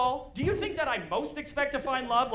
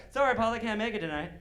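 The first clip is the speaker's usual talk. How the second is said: flirty reading of text; faster than usual. Retold or imitated. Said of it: "maybe she was flirting with me".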